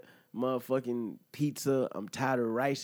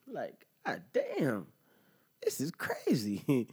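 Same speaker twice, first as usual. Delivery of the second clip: whisper; slower than usual. Real, not acted. Aside about his aching back.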